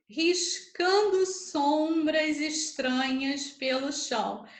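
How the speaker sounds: RISCANDO SOMBRAS ESTRANHAS PELO CHÃO slowly measured out, dropping on CHÃO; syllable-by-syllable scansion. Shown as a demonstration. Teacher dividing the verse for students, syllable by syllable. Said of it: "A divisão coincidiu de ser".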